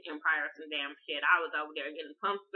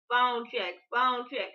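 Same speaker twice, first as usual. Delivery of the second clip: mock scream; 5 semitones higher, 5 dB louder, slower than usual. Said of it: "started screaming to Portia".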